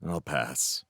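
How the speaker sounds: a breathy whisper, barely there. Acted. Felix whispers, refusing to watch the memorial. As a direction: whisper it, turning down the service. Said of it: "Felix shook his head".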